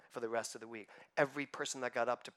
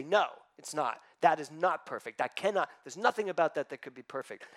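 mild indignant denial. Retold or imitated. Minister voicing her protest at tragedy, mildly indignant. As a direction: push back against it, offended. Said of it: "and say".

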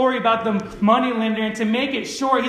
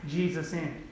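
softer, understated sarcasm; sarcastic; 3 semitones lower, 5 dB quieter than usual. Shown as a demonstration. Preacher repeats Simon's one small gesture, quietly sarcastic. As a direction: drop it quietly as if in quotation marks. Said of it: "that's me being sarcastic".

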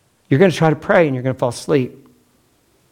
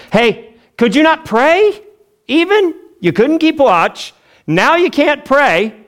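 much higher, slow disbelieving scold; exasperated rebuke; 11 semitones higher than usual. Retold or imitated. Jesus scolding the sleeping disciples, high exasperated disbelief. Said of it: "he says".

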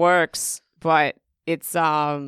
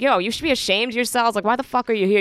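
retold scolding; 5 semitones higher, faster than usual. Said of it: "I was already pissed".

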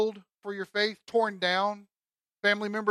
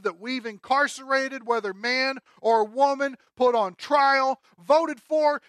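higher, louder inner monologue; Saul thinking aloud; 5 semitones higher, 7 dB louder than usual. Acted. Saul searching his records in his head, agitated thinking aloud. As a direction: puzzle it out as Saul. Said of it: "Okay, pause".

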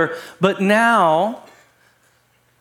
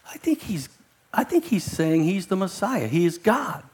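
much softer, almost under the breath; hushed Peter; 6 dB quieter than usual. Pretend. Peter quietly answering John about the Messiah, hushed. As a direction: confide it as a secret.

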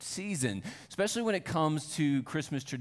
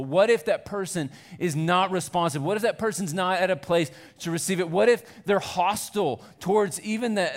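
higher and louder, pressing anxious questions; rising worried questions; 5 semitones higher, 5 dB louder than usual. Retold or imitated. Pastor voicing his own doubts to the congregation, higher and louder. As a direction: pile the what-ifs up with mounting worry. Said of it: "sitting there going".

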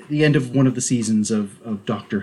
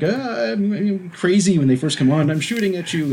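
high-pitched, lightly mocked panicky crewman; crazed crewman; 8 semitones higher than usual. Co-host imitating a crazed crewman from the show, high-pitched. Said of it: "the crewman that's like".

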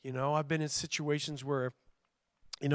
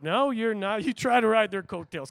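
a touch of louder, fiery Southern preaching; Southern preacher; 4 semitones higher, 6 dB louder than usual. Real, not acted. Preacher scolding the congregation like a Southern preacher. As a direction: preach it hard, revival style. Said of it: "I'm starting to sound like a Southern preacher".

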